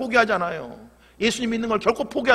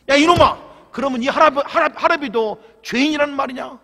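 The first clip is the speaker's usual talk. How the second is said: grandfather shouting; 5 semitones higher, 6 dB louder than usual. Acted. Grandfather explodes in anger.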